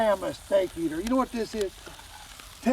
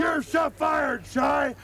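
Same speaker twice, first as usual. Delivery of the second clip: shout; 6 semitones higher, slower than usual. Acted. Firing the ranch hand.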